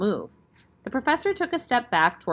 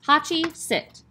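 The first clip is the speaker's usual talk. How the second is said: firm, raised call of the dog's name; serious command; 8 semitones higher, 3 dB louder, slower than usual. Acted. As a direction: give the order seriously, like a trainer. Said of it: "gave the command in a serious tone of voice".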